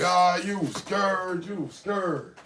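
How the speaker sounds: sing-song mocking you was scared; teasing kids. Boys mocking their scared friend, sing-song and slow. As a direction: taunt him like boys teasing. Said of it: "they like".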